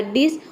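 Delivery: "डिस" said alone as the first syllable; syllable demo. Shown as a demonstration. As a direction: break off "डिस" as its own chunk. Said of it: "तोड़ तोड़ के pronounce करेंगे". ("डिस" को अलग अक्षर-खंड में बोलें)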